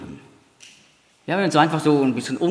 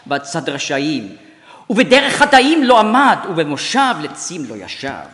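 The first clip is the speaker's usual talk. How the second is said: Hebrew psalm declaimed with strong intonation and accents; emphatic, clearly articulated Hebrew recital; Hebrew recitation; 5 semitones higher, 5 dB louder, faster than usual. Shown as a demonstration. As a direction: recite in Hebrew, building to fast, loud, high phrases. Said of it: "wenn ich in einer Fremdsprache spreche".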